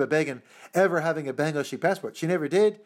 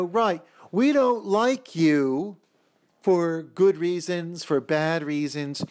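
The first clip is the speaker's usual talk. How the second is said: mock foreign government; 4 semitones higher, slower than usual. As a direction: lay it on as a smug foreign state, drawn out. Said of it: "other governments saying".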